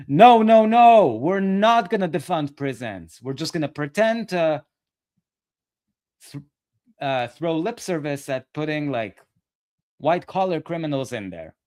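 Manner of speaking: high, loud whiny mimicry at the start, settling down; mocking Kyle Kulinski. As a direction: mimic him as a dim, squealing man. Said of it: "Kyle Kulinski's brilliant framing is".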